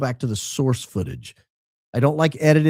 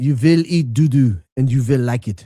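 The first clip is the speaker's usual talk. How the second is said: clumsy, best-effort put-on German accent; 4 dB louder than usual. Voicing a line marked as spoken with a German accent, put-on German accent. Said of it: "spoken with German accent. ... I don't do German accents very well, but I did my best".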